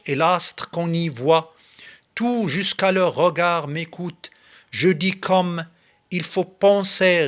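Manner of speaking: measured verse reading, slightly lifted above normal talk; poem recitation. Acted. Reading Victor Hugo's poem to video viewers, in recitation voice. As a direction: recite it line by line, pausing between phrases.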